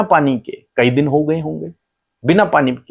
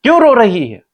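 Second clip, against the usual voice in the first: higher-pitched, concerned angel calling out; 9 semitones higher, 3 dB louder than usual. Retold or imitated. Angel calls to the weeping Hagar, raised concerned voice. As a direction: ask it as the heavenly messenger, pitched well up. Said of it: "उसके बावजूद परमेश्वर से कहते हैं".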